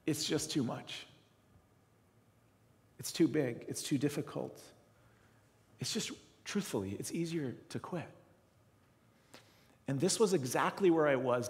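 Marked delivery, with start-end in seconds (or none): 0.1-8.1 softer, giving up; defeated. Retold or imitated. Pastor voicing his old despair, soft and beaten. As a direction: sink into hopeless quiet.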